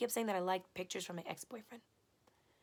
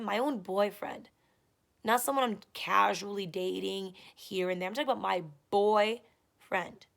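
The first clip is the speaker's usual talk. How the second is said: louder, insistent venting; heated rant; 6 dB louder than usual. Real, not acted. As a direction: lay it out hard, frustrated. Heated rant about boyfriend.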